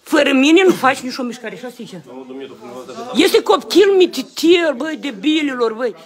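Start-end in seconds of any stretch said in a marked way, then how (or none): 3.1-6.0 indignant, raised-pitch outburst; angry scolding. Real, not acted. Father to officers about the small child, indignant scolding.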